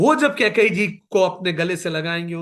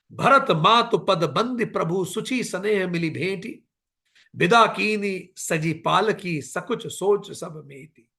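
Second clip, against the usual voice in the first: intoned doha, last line slowed; verse recitation; slower than usual. Acted. Preacher quoting Ramcharitmanas to listeners, recited. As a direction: chant the verse devotionally.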